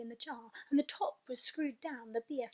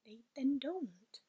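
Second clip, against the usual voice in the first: sharp; slower than usual. Acted. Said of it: "the B F G answered sharply".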